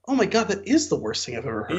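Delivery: laughing through the line in disbelief; laughing reaction. Retold or imitated. Viewer reacting to the villain's line, laughing. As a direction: say it while cracking up. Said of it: "And on the other hand, it's like".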